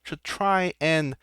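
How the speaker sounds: lordly recruiter making an offer; scheming arena lord. Acted. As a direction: woo the boy away, silky and sure. GM voices Maximus offering deal.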